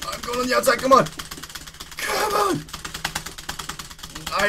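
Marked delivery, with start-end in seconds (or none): 2.0-2.6 high frustrated cry. Real, not acted. Race must be redone.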